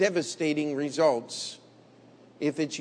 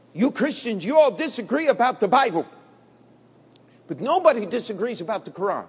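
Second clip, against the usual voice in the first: imitating the man; 3 semitones higher, 4 dB louder, faster than usual. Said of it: "And he said".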